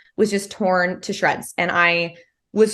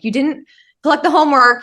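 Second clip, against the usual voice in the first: mock know-it-all student; 6 semitones higher, 6 dB louder than usual. Mocking the eager girl student.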